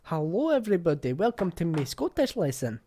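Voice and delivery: mocking her stiff Scottish intro; mock English lassie. Mimicking the video's English lassie, mocking. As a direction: repeat her clumsy lesson opener, loud. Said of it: "it's no great".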